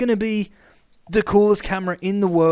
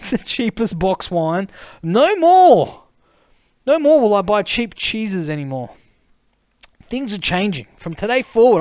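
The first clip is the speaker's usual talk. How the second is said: higher, louder, pompous mock declaration; mock proclamation; 3 semitones higher, 5 dB louder than usual. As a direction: proclaim it like a newly crowned snob. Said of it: "mock grand proclamation".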